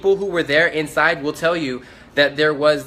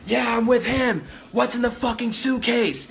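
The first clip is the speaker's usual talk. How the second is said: much higher, slower voice for the second man; another guy backing him up; 9 semitones higher than usual. Retold or imitated. Second man runs up, demands to see the suitcase, high voice. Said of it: "he goes".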